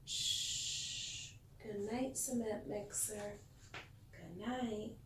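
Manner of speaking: soft whispered shh and goodnight; tucking in a sleepy truck; hushed goodnight. Pretend. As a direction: whisper it as if a child just fell asleep. Bedtime goodnight to toy truck.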